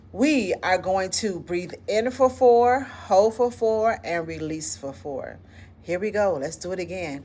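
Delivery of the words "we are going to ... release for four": guided breathing count. Shown as a demonstration. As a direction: lead the group through the breath. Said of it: "we're gonna do our breathing technique again".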